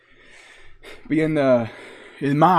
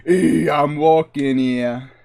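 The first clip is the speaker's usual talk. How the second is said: put-on Boston accent; 3 dB louder, slower than usual. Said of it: "like, a proper Boston accent".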